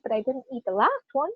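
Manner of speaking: "last" made the most prominent word; stress on LAST. Shown as a demonstration. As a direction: lean on "last" to narrow the denial. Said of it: "That's what I'm emphasizing".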